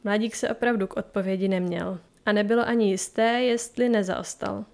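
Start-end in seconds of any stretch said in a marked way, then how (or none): none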